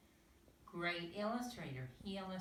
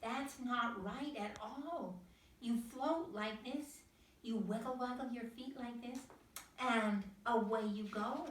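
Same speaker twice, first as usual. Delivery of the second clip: patient higher teaching voice; 6 semitones higher, 4 dB louder than usual. A narrator's reading. Mother duck teaching again.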